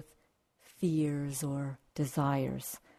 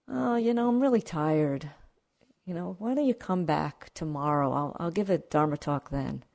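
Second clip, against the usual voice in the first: tired Buddha. Acted. Buddha voiced in a story.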